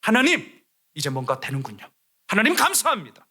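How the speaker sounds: breathless, overjoyed thanks to God; Nehemiah's thrilled silent prayer before the king; excited prayer. Retold or imitated. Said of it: "이렇게 기도했을 거예요".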